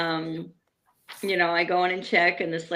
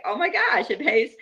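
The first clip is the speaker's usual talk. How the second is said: excited; 4 semitones higher than usual. Retold or imitated. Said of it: "I was like".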